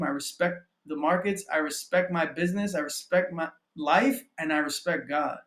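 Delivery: measured, declarative list of affirmations; affirmation reading. Real, not acted. Coach reading own affirmations to viewers, with conviction. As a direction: state each line with conviction. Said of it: "I'm gonna read my affirmations".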